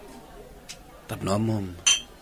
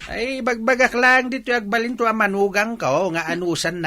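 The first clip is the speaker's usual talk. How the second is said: teasing; 10 semitones higher, 4 dB louder than usual. Acted. Father teases about future son-in-law.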